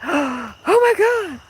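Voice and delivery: high, slow thrilled gasp of delight; imitating excited squeal. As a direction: gasp it out like a favourite customer just called. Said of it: "I was very excited".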